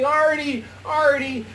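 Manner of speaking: high, loud, beckoning call; hammed-up come-hither cry; mock sexy voice. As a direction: imitate a woman calling her lover over. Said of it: "I see Marilyn with her open arms".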